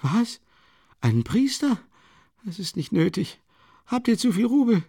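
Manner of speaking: high, bitter, mocking cry of a dying woman; scornful dying woman. A narrator's reading. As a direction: scoff at the idea of a priest. Dying woman rejects priest.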